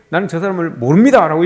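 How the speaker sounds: lightly put-on Busan lilt; Busan accent. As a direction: deny it with a touch of Busan accent. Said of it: "이 베드로가 그렇게 이야기하는 거죠".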